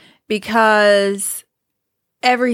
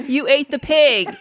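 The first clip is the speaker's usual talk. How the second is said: laughing; 5 semitones higher, slower than usual. Retold or imitated. Mom's reaction, laughing while quoting.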